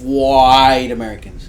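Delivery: "White" stretched long and loud; drawn-out WHITE. Acted. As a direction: slowly lean hard on "White". Exaggerating the word white.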